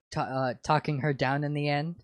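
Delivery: says talking where it reads taking; misread, talking her down; misread word. Real, not acted. Misreading the fanfic aloud, talking instead of taking. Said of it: "Taking her".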